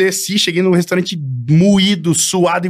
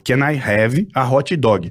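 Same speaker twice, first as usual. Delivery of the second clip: slow, careful learner English, a little lower; coaching an English phrase; 5 semitones lower, much slower than usual. Retold or imitated. Friend teaching him how to order, slow and deliberate. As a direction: spell out the order word by word at half speed. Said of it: "Repete que eu vou decorar essa porra".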